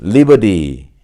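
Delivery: American "liberty" as "liber-ee", T flapped; American model word "liberty", T softened away; American pronunciation. Shown as a demonstration. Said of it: "미국식 발음이죠".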